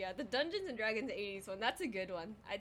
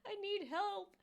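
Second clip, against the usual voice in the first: very high, slow, teary whimper; little girl begging teacher for help, high teary voice; mock crying child; 11 semitones higher, slower than usual. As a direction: play your crying child self, drawn out. Child crying at test retold.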